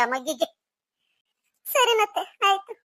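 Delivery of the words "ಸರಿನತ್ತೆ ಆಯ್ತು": near tears as she gives in; tearful. Acted. Scolded daughter-in-law agreeing to her mother-in-law, tearful. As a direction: swallow the sob and agree.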